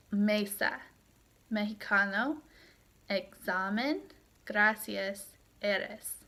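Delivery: "Mesa, mexicano, examen, gracias, eres" stressed MEsa, mexiCAno, eXAmen, GRAcias, Eres; stress on second-to-last syllable. Shown as a demonstration. Teacher reading examples of palabras llanas, "Mesa, mexicano, examen, gracias, eres" stressed on second-to-last syllables. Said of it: "have the word stress on the second to last syllable".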